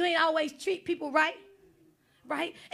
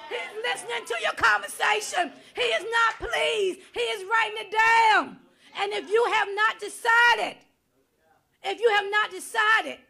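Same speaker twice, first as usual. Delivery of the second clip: full-force preaching; 2 semitones higher than usual. Acted. Preacher exhorting the congregation, at full force. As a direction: preach it hard and call them out.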